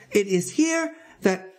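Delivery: slow, high, uncertain explanation; hesitant, drawn-out protest; faltering. A narrator's reading. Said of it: "he faltered".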